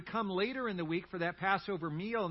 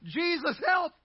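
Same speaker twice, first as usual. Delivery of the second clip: imitating mom's loud, high cry for help; mom's two-word prayer; 12 semitones higher, 10 dB louder than usual. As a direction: cry it out like mom in a panic. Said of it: "She is famous for this".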